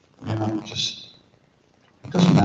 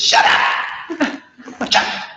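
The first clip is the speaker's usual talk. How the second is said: much higher, airy mock scolding; hushing guru; 5 semitones higher, slower than usual. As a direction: hush her fast and sharp. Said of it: "And he says".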